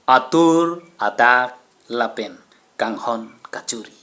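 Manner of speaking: slow closing verse, firm start falling away; measured, voiced declamation; poem recitation. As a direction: recite the line slowly, voice sinking at the end. Closing poem line, first take.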